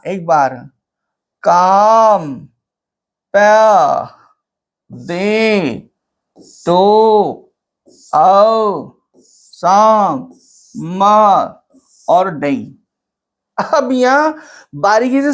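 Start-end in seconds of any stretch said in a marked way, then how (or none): 1.4-12.7 each syllable stretched, with a gap after it. Shown as a demonstration. Teacher counting a line's syllables, sounding each out separately. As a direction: sound out काम, प, दे slowly, one at a time. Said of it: "one syllable हो गया".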